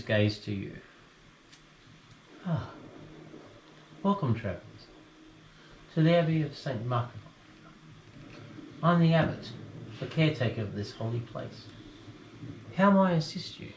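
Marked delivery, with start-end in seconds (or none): 2.5-13.7 hearty abbot welcoming guests; a lightly booming friar's welcome; jolly booming friar. Acted. GM voices the abbot.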